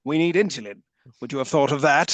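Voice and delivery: a hint of an unimpressed villain; John Lithgow. Villain turns to his henchman, lightly mocking the plea. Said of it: "John Lithgow turns to Travers and says".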